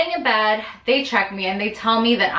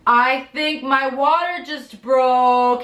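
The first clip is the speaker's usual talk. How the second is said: slow, higher, breathless with news; anxious news; 5 semitones higher, much slower than usual. Retold or imitated. To her husband just home, slow and stunned. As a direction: break it to him, slow and stunned. Telling husband water broke.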